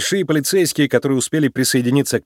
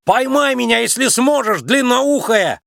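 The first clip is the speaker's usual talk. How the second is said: high, mocking yell, last word slow; taunting shout; 10 semitones higher, slower than usual. A narrator's reading. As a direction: jeer at the chasing cop. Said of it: "прокричал он в ответ".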